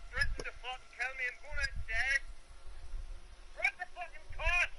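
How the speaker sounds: riled up. Real, not acted. Angry man hunts for his cosh.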